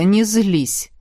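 calm her down gently; pleading. Acted. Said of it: "попросил Родерик".

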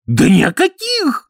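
high, loud, hasty denial; chattering denial. A narrator's reading. Burenin hastily denying to the count, flustered. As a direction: cover it up fast. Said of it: "затрещал бывший кирасир".

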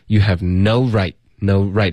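both "no" and "right" given weight, slowly; stress on "no right". Shown as a demonstration. Teacher shows both stressed words, "no" and "right". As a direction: lean on "no" and on "right". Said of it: "这两个都会有重音".

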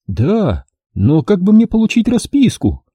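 a lightly voiced scheming woman; voiced female client. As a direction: play a calculating client doubting the deal. Client asks receipt.

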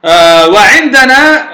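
ordinary delivery

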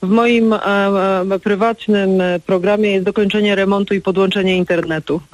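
weak signal phone audio; choppy mobile line; bad connection. Real, not acted. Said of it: "bo pani ma słaby zasięg".

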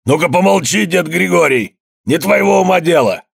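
a rich man shouting down an elder at a wake; angry outburst. A narrator's reading. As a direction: snap at the old man to shut up. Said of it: "и выпалил".

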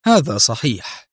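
slow, composed reply; unhurried composure; calm. A narrator's reading. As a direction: concede it calmly. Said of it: "أجابه أدهم في هدوء".

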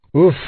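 short puff of relief; exclaimed "uf". A narrator's reading. Sailor after tying up the monkey, exclaimed puff. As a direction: let out a brief "uf". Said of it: "exclamó Pencroff".

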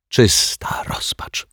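slow, whispery lament; drawn-out, half-whispered misery; despairing. A narrator's reading. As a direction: breathe it out in hushed despair. Character laments shrunken summer clothes.

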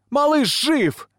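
very high, strained scream; loud high-pitched cry; shouting back. A narrator's reading. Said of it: "кричит в ответ Лилия".

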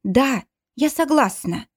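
slow, high, through happy tears; happy crying. A narrator's reading. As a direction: accept him while crying with joy. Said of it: "говорю сквозь слёзы счастья".

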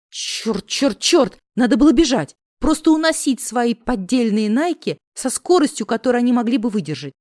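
rising panic, fast at the end; panicked. Acted. Heroine panics inner voice.

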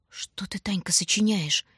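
startled, half-whispered question; frightened. Acted. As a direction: hush it out in a fright. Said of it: "испугался Шурка".

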